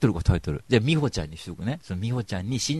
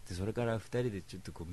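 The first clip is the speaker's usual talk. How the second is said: usual speaking voice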